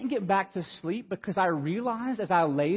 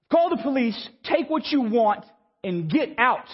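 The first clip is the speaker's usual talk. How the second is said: slow, higher retold warning; announced out loud; 4 semitones higher, slower than usual. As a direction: call out to an intruder, spacing each command. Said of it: "I say this out loud".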